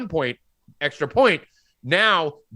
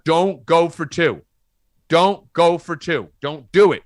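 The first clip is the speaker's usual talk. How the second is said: retold yell; 5 dB louder, slower than usual. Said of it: "I'm screaming in the bar".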